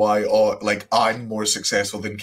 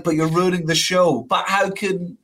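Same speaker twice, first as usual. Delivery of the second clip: higher-pitched quoted back and forth; mock fan argument; 5 semitones higher than usual. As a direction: play both sides lightly.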